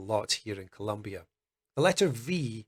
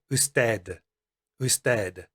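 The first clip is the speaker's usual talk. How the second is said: usted with a Spanish ending; usted en español; 2 semitones lower than usual. Shown as a demonstration. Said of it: "Take the Spanish word".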